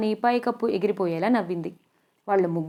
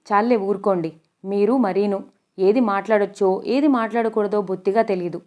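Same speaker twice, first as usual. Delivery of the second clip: mildly angry scolding. Acted. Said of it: "కాస్త కోపంగా".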